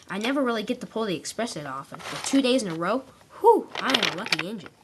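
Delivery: thrilled to pull the express; a touch of excited engine. Acted. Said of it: "He was very excited".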